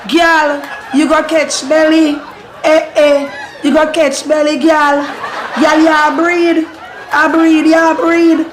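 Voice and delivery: high-pitched playful accusation; acted high-pitched telling-off; mock scolding. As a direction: call her out in a high, insistent voice. Acted scolding of pregnant girl.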